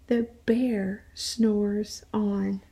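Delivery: slow and sleepy; sleepy storybook refrain; drowsy refrain. Acted. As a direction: stretch it out like a yawn. Refrain of the picture book.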